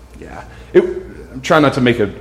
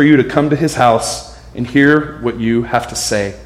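steady, lower reading-aloud voice for the passage; scripture reading; 3 semitones lower than usual. Acted. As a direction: read the verses out to the congregation.

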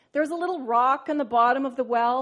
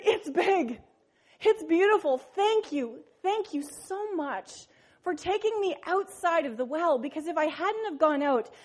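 lightly raised, laughing frog voice; grateful little frog; 3 semitones higher than usual. Acted. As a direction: thank the sparrow with delight. Frog thanks the sparrow.

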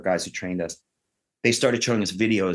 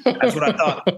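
laughing; 7 semitones higher, 3 dB louder than usual. Retold or imitated. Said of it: "he goes".

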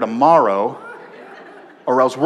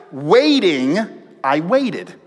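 "Waiting" raised and stretched, pause, then "I waited" falling; emphasis by repetition; 3 semitones higher, slower than usual. Shown as a demonstration. Preacher shows David's doubled word, "Waiting" stressed. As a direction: lean hard on "Waiting", then repeat "I waited". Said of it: "way that you would put an emphasis on a word".

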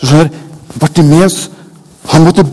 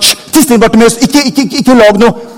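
lightly voiced scolding crowd, higher; crowd shushing; 7 semitones higher, 3 dB louder than usual. The same people hushing Bartimeus, mild mock scolding. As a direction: hush him, impatient. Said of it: "og sagt".

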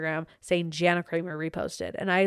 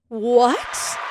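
excited what; 3 semitones higher, 5 dB louder than usual. Acted. Icing on the cake reveal.

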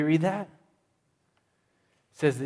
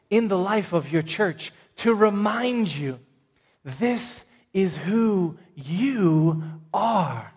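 emphatic answer; 5 semitones higher, 4 dB louder than usual. Acted.

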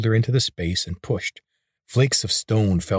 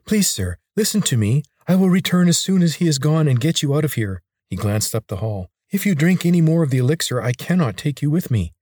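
higher, urgent little lizard; hurried higher warning; 7 semitones higher, 3 dB louder than usual. A narrator's reading. Tark pleads with Corvin.

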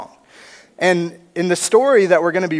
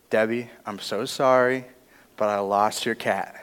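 sheepish confession; 5 semitones lower, 7 dB quieter than usual. Retold or imitated. Confessing lost cat to neighbor.

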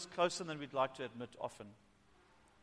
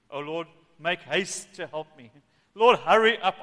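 slow build into a loud cry; urgent plea; 11 dB louder than usual. Acted. David begs God to hurry and help, urgently. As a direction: start drawn out, then burst out louder.

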